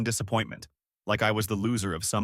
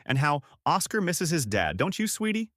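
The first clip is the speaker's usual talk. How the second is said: lightly acted sweet mom, pitched way up; sugary coaxing; 6 semitones higher than usual. Mother prompting her son at a family dinner, sugary high coaxing. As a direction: coax sweetly in a much higher voice.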